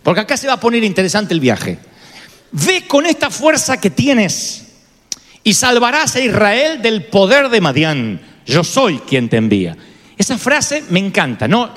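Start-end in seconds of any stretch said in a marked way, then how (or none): 2.5-9.8 slow, steady sending; slow firm command. Retold or imitated. God slowly sending a fearful Gedeón to fight. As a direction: say it slowly, each word weighed. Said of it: "No se pierdan este detalle".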